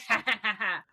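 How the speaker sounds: mock gloating cackle; imitated cackle. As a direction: cackle like a vengeful sister. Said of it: "you can hear the cackle".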